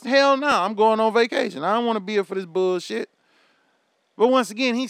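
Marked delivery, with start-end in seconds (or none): 0.0-3.1 mock shouted answer. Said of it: "All you had to say was".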